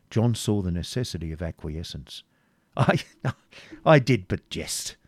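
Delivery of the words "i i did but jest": nervous jesting. A narrator's reading. Prince backs down as jesting.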